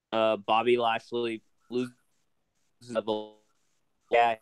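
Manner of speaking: choppy, breaking-up call audio; bad connection. Real, not acted. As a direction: voice cutting in and out. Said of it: "Oh, you're breaking up".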